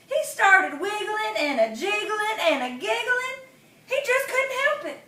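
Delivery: high, giggling narration; giggly. A narrator's reading. Narrator telling the tickled possum, high and giggly. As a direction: let the giggles bubble up.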